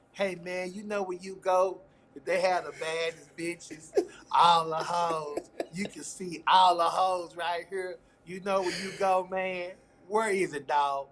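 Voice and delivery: slow, laid-back street hustler drawl; Boys in the Hood voice. Retold or imitated. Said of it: "in my Boys in the Hood voice".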